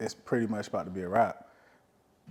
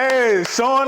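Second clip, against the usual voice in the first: put-on much higher and louder, hyped teasing girl voice; teasing Instagram girl; 12 semitones higher, 8 dB louder than usual. Host voices a girl teasing the player's Instagram posts, high laughing hype. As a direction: hype her up like a friend in the comments.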